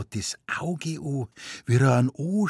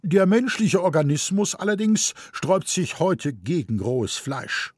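higher, lecturing know-it-all; pedantic gentleman; 7 semitones higher than usual. A narrator's reading. Gentleman with pince-nez correcting the mother, lecturing. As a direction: correct her with raised finger.

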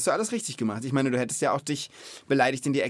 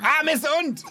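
dismayed cry; 4 dB louder, slower than usual. Real, not acted. Caught saying forbidden word.

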